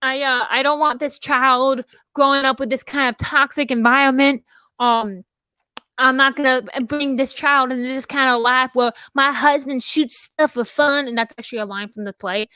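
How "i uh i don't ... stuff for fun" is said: put-on Southern US accent. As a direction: play the wife with a touch of the South. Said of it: "I got so Southern".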